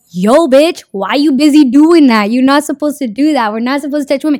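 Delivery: mock-outraged young monk calling him out; hammed-up indignant yelling monk; indignant junior monk. Junior monk scolds older monk.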